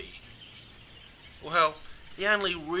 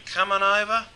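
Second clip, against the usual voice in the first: higher-pitched casual call to a friend; 6 semitones higher, 4 dB louder than usual. Acted. Mate inviting a friend round out of the blue, calling out. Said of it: "a mate will call out of the blue".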